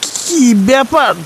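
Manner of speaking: put-on a lively village boy calling to his grandpa figure; young boy voice. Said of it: "নন্টে বুড়োকে দেখে বলল". (উঁচু গলায় উৎসুক ছেলের ডাক)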